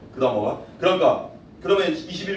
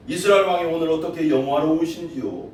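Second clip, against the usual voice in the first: sarcastic; 2 semitones lower than usual. Retold or imitated. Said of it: "비아냥거리는 거야".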